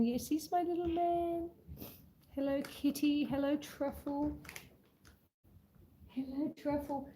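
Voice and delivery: soft cooing to a cat; softened pet-greeting voice; pet talk. Real, not acted. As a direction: dote on the kitty, hushed and tender. Cooing to her cats.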